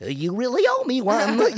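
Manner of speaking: high, loud mock elf. Showing how silly the line sounds as elf, high loud voice. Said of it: "you gotta do the elf voice".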